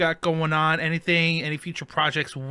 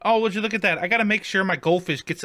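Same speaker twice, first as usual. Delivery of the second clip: hammy fake excuse; 6 semitones higher than usual.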